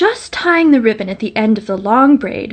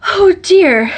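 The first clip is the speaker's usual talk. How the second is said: anxious exclaim; 8 semitones higher, 5 dB louder than usual. A narrator's reading. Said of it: "she said as she ran".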